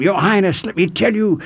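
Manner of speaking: imitating Lord Buckley. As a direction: lift the pitch and play the hip preacher lightly. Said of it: "I can't imitate him".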